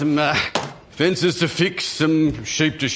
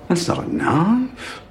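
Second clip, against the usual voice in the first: Dundee knife quote; 3 semitones higher, slower than usual. Pretend. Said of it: "Miles wears a Crocodile Dundee hat".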